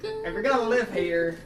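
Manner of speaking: lightly voiced villain jeer; mildly gruff boss taunt; hint of a sneering boss. GM redoes boss line.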